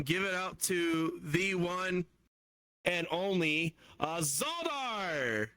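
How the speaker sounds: drawn-out guest introduction; slow build to stretching out the name; emcee introduction. Real, not acted.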